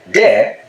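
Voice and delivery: de, there said with a d and no r; Gullah there. Shown as a demonstration. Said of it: "the word for there".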